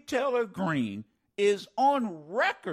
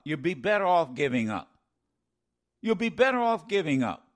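mocking Greene; 4 semitones lower, faster than usual. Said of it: "They'll be better off if they just give up".

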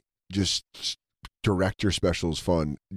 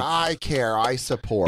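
mock-earnest; 2 semitones higher, slower than usual. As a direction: proclaim it like a show-off supporter. Mocking pandemic clappers' show of caring.

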